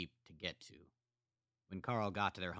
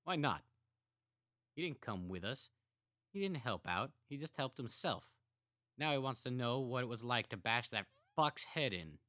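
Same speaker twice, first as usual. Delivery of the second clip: angry brother; 6 semitones higher, 3 dB louder than usual. A narrator's reading.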